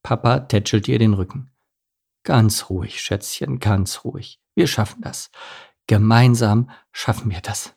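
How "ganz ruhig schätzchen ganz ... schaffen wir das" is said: hushed, calming comfort; soothing husband. Acted. Father soothes crying mother.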